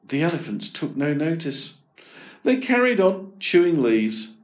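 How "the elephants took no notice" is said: ordinary delivery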